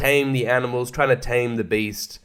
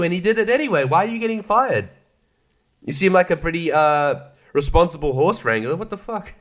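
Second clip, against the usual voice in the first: indignant rant; 4 semitones higher than usual. Retold or imitated. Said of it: "And I'm like".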